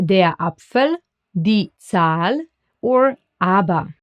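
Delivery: "Apfel", "Zahl", "aber" with ah as in father; German A. Shown as a demonstration. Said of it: "The German A is pronounced as A".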